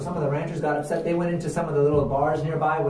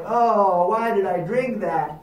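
hungover groan; 3 semitones higher, much slower than usual. Acted. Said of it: "lie around all day with a headache afterwards going".

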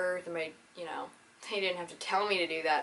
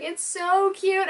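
slow high gushing quote; 11 semitones higher, 6 dB louder, much slower than usual. Retold or imitated. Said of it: "she's like".

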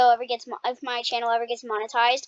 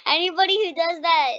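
half-crying laugh; 4 semitones higher, 3 dB louder, faster than usual. Real, not acted. Crying-laugh outburst mid-game.

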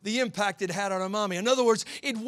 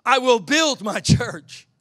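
slow, weighty and louder; slow emphatic; 6 dB louder, much slower than usual. Shown as a demonstration. Preacher repeating Jesus' promise, slow and emphatic. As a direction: lean into "build" slowly. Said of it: "Jesus said".

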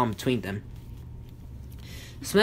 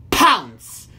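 shouted command; 5 dB louder than usual. A narrator's reading. Gargamel orders his cat.

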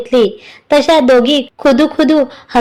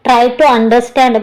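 slow appeal; much slower than usual. Acted. Husband refusing wife gently.

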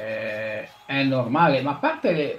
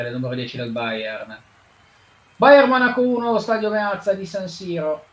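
play-by-play commentary; 3 semitones higher than usual. Acted. Commentary continues.

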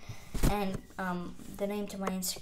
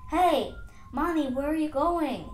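put-on raised, loud child-to-mommy call; calling little one; 5 semitones higher, 6 dB louder than usual. Tadpoles calling after their supposed mommy, pleading call. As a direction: call after a parent who is leaving.

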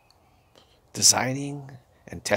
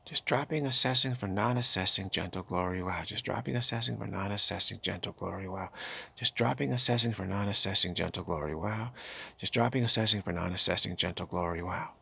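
guided mantra. Acted. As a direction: chant it gently like a meditation guide, letting every wow drop away. Leads a repeated mantra practice.

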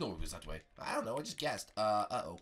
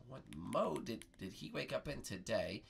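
pondering echo. Pretend. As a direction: repeat the question haltingly, thinking. Bart repeats the question pondering.

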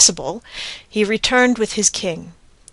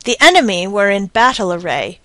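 plain reading voice

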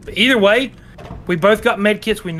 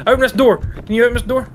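shouting; 7 semitones higher, 4 dB louder, faster than usual. Real, not acted. Locked in, yelling at partner.

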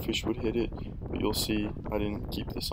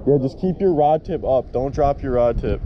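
calling out; 4 semitones higher, 11 dB louder than usual. Real, not acted. Coaching friend across water.

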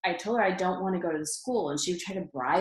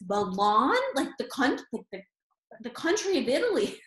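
much higher, disbelieving repeat; shocked mom; 6 semitones higher than usual. Retold or imitated. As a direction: squeak it out in disbelief. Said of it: "she was in shock".

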